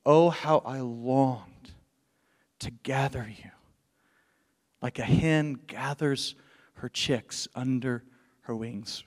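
longing sorrow drawn out gently; tender lament. Retold or imitated. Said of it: "he's weeping over Jerusalem again".

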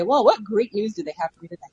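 understated doubtful brightness; faintly sarcastic positive question; mild sarcasm. Pretend. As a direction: pretend to hope, without quite believing it. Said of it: "I feel like I'm being sarcastic".

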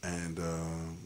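talking while high; speaking high on weed; stoned. Real, not acted. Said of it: "I'm high right now".

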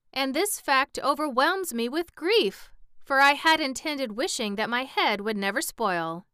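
a hammed-up wail of grief; plaintive wail. A narrator's reading. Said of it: "wailed the Pumpkinhead".

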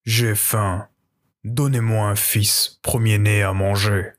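low, slow ghost dragon growl; lightly voiced hungry dragon. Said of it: "il secouait son horrible tête et hurlait".

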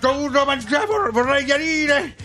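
out of breath, puffing through words; wheezing like after a big meal; wheezy voice. Acted. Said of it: "c'ho il fiatone pure da fermo".

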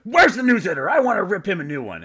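high, loud mock demand; pissed-off husband. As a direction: storm in hunting for the culprit. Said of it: "he is pissed".

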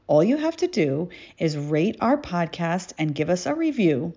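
measured, carefully phrased contest announcement; podcast promo read. Acted. Podcaster announcing a contest to listeners, promo read. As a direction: read it out like a prepared ad.

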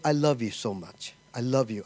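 low, gently voiced love declaration; tender declaration. A man or woman to their sweetheart before marrying, imitated tenderly.

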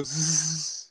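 slow hissing snake noise. Retold or imitated. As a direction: draw out a snake hiss. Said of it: "If he was a snake".

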